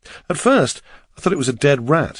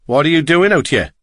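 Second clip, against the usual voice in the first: higher-pitched Welsh cab driver; strong Welsh accent; 4 semitones higher, 4 dB louder than usual. A narrator's reading. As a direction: ask with a strong Welsh lilt. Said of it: "asked in his strong Welsh accent".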